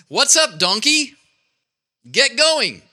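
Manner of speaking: annoyed donkey driver. Acted. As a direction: call out the donkey, lightly cross. Balaam scolds his donkey.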